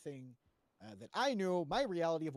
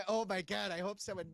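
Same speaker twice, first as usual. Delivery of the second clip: mock panic; 3 semitones higher than usual. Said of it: "me being like".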